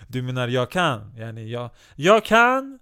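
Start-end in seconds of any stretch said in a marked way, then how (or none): 1.9-2.8 Turkish Yoda voice. Retold or imitated. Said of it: "Han lät precis som, som Turk Yoda".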